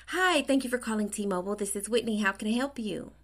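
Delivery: quick, polished phone-operator greeting; customer service voice. Retold or imitated. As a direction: sound like a call center rep answering. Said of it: "you have a customer service voice".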